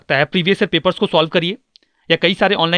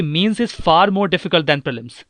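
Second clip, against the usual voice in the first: slow emphatic point; much slower than usual. Shown as a demonstration. Key point said slowly.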